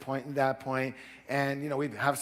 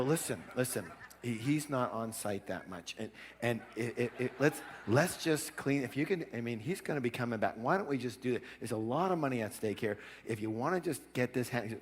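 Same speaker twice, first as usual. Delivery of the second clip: softer, placating good-guy voice; acted confidential coaxing; 2 semitones lower, 7 dB quieter than usual. Son coaxing plumber after father leaves, softly placating. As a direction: talk them round on the quiet.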